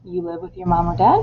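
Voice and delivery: "You live with your mom or dad?" said as a statement lifted into a question at the end; no "do", just let "dad" rise; rising question. Shown as a demonstration. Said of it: "you will just ask".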